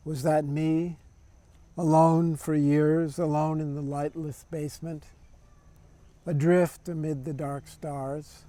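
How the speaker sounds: measured poetry recital, pausing after each line; poem reading. Acted. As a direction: read each line deliberately, letting it settle. Reads own poem aloud.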